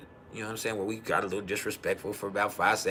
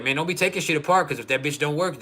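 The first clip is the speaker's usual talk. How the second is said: retold exasperated warning; 5 semitones higher, 3 dB louder than usual. Retold argument over car starter.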